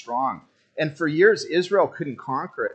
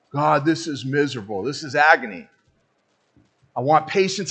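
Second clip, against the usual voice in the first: impatient whine; 4 semitones higher, 6 dB louder than usual. Retold or imitated. Pastor acts out impatient prayer.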